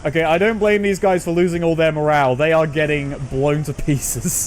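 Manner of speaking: excited exclaiming. Real, not acted. Army gets shelled, streamer exclaims.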